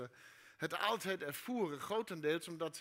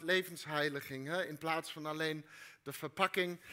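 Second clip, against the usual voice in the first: talking with a cold; slightly blocked nose; stuffy nose; 3 semitones lower than usual. Real, not acted. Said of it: "ik ben een beetje verkouden".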